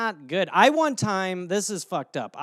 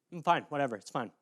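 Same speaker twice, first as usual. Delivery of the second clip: sulky; 5 semitones lower, 8 dB quieter, faster than usual. Retold or imitated. Sulky jealous denial.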